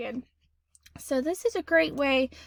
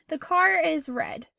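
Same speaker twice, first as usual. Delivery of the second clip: flat statement, slow; 3 semitones higher, slower than usual. Shown as a demonstration. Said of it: "the best option for this one would be a period".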